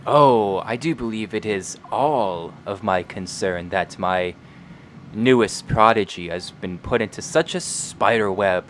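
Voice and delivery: sinister scheming villain; sly honeyed whisper. Acted. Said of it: "his sinister, scheming voice".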